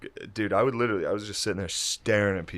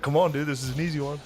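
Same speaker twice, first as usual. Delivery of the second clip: mock coaxing; 6 semitones higher, faster than usual. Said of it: "It's like".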